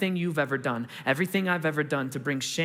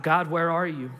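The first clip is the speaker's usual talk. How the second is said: half-raised imitation of crying out; mild retold shout; 4 dB louder than usual. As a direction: call out to God with restraint. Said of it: "and he shouts out".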